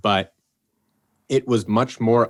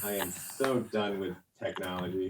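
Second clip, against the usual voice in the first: laughing exasperation; 5 dB quieter than usual. Real, not acted. Camera failing, laughing at it.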